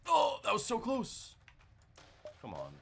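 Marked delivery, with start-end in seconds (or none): 0.1-1.4 high, slow, drawn-out near-miss yelp; excited cry. Real, not acted. Gamer yelping at a near miss, high and stretched.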